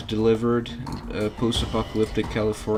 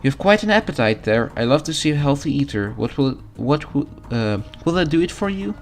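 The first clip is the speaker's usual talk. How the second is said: higher, cheerful mom voice; motherly diner cook; 5 semitones higher, 4 dB louder than usual. Acted. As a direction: dote on the hungry customer. Mom NPC speaks.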